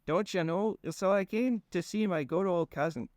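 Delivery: put-on high, folksy rambling accent; goofy drawling accent. Fang explaining himself to Conrad in a goofy accent. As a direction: ramble on in a dopey regional accent. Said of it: "Ian was doing an accent".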